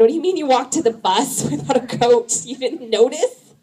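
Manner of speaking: incredulous scolding. Retold or imitated. Scolding kids, no coat.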